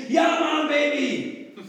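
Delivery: loud, high hyped yell; thrilled youth. Pretend. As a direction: cheer like an eager teen. Jugendlicher begeistert geantwortet. (begeisterter Jugendlicher, laut gejubelt)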